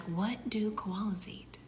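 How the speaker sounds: slow unvoiced whisper; whisper to self. Wife whispering to herself about koalas. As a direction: think it aloud in a whisper.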